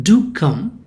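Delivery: courteous emphasis on "Do"; polite emphatic request. Shown as a demonstration. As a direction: lean on "Do", leaving the phrase lifted. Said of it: "asking them or requesting them politely".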